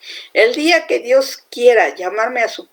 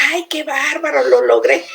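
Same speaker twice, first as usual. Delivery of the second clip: smug boast; 4 semitones higher than usual. Pretend. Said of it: "Ya no lo ves así como diciendo".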